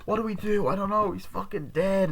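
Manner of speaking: high, fretful mock voice; acted panic. Friends don't know what to do, mock panic. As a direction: imitate someone at a panicked loss.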